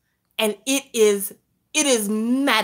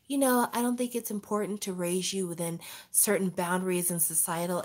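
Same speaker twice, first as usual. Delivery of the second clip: softer, airy new-age mom; soft dreamy mom voice; 6 dB quieter than usual. Retold or imitated. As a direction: lull like a hippie mother. Voicing hippie mom advice.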